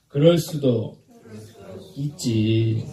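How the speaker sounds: measured, low-falling acceptance; accepting shrug. Shown as a demonstration. Preacher leading congregation in a forgiving reply, accepting. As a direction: model a tolerant reply for others to repeat. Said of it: "한번 따라합시다".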